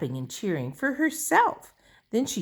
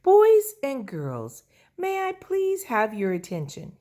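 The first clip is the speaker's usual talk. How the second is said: announcing dad; 8 semitones higher, 5 dB louder than usual. Acted. Lucille's daddy calling the guests to attention. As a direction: address the whole party formally.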